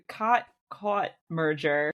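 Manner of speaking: first "caught" as "kaht", second "caught" as "kawt"; two distinct vowels. Shown as a demonstration. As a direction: separate "caught caught" into ah, then aw. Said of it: "I definitely say them different".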